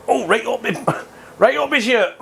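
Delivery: high-pitched exclamation of real surprise; startled yelp. Real, not acted. Cook caught right up his shirt, startled high exclamation.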